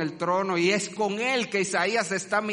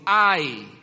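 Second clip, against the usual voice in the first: woeful cry; 9 dB louder than usual. Shown as a demonstration. Demonstrates the woe word.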